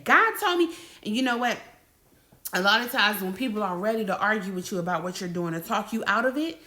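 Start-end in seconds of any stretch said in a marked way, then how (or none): 0.0-0.7 "God" punched high and loud, falling firmly on "me"; bold declaration. Shown as a demonstration. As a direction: declare "God told me" without a doubt. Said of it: "You can relentlessly and boldly say".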